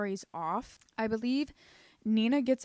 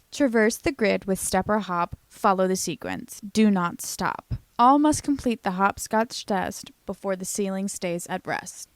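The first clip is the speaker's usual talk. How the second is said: ominous psychopath message; 9 dB louder than usual. Acted.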